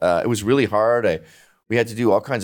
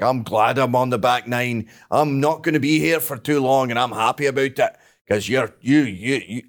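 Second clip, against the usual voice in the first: lightly voiced elderly father; a hint of an old dad's voice; imitating dad. Dad to his son about his late years, lightly imitated old man. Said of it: "my dad just yesterday was like".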